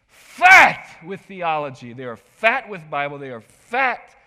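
loud, slow, passionate yell; yelled fat. Retold or imitated. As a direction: hammer the word fat. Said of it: "Sorry to yell fat so loud".

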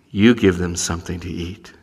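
low, deep voice from above; a heavenly voice speaking down; divine voice. Pretend. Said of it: "I hear it again".

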